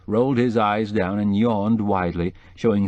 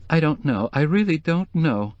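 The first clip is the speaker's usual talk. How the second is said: tearful woman; 7 semitones higher than usual. Acted. Mrs Starkweather voice.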